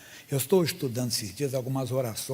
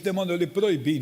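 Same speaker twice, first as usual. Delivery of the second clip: commanding rebuke; 3 semitones higher, 8 dB louder than usual. Retold or imitated. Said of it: "Eu disse".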